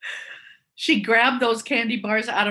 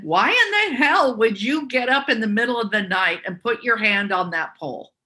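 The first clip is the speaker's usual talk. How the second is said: angry mother; 3 semitones higher, 4 dB louder than usual. Retold or imitated. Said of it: "my mom said".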